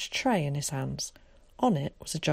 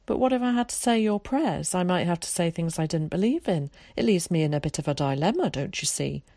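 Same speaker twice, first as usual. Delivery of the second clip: lightly voiced well-spoken boy with a worry; earnest, wordy boy. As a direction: put the problem as a bookish child would. Voices Zack, a story figure.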